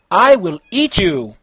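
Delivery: loud monster threat; yelled threat. Acted. Monster threatening Konata, loud yell. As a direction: bellow it at her. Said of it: "he yelled".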